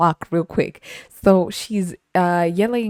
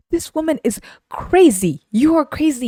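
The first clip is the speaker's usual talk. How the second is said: high-pitched exasperated disbelief; incredulous; 10 semitones higher, 4 dB louder than usual. Retold or imitated. Server judging the complaining customer, incredulous. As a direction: exclaim it high, drawing out crazy.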